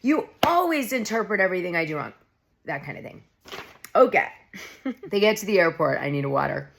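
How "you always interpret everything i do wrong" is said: high, loud hammed-up outburst; mock flip-out. Dorit blowing up at Garcelle over nothing, hammed-up and high. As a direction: fake a dramatic blowup at Garcelle. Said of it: "Dorit should have flipped out over nothing".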